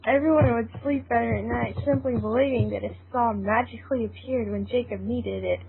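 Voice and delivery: steady storytelling read; story narration. A narrator's reading. Narrator telling the friends' adventure, in a calm storytelling voice. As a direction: narrate the scene evenly for listeners.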